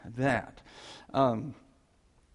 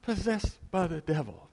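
high, slow, loud cry of protest; a kid screaming he is not possessed; loud yell; 8 semitones higher, 4 dB louder, slower than usual. Retold or imitated. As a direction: shout the denial high and drawn out. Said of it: "This is loud".

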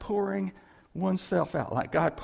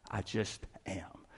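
soft, slow and reverent; hushed; 8 semitones lower, 11 dB quieter than usual. Acted. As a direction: let it fall quiet and slow. Hushed awe.

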